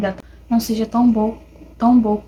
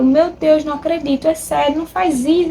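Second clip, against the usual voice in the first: shocked disbelief; 5 semitones higher than usual. Retold or imitated. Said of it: "um plot twist que você fica lendo".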